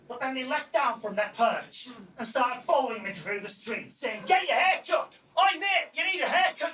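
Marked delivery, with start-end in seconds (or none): 4.3-6.7 chanting, louder taunts; mocking yobbish heckle; jeering kids. Kids jeering while following him.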